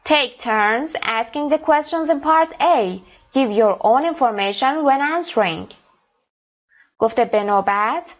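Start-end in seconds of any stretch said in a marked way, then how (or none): 0.1-5.7 slow careful reading. Shown as a demonstration. Teacher reads instructions aloud.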